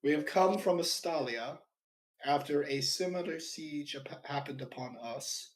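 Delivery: grand heroic proclamation; heroic announcement. Acted. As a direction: speak as the arriving hero. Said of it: "Your heroes have arrived" energy".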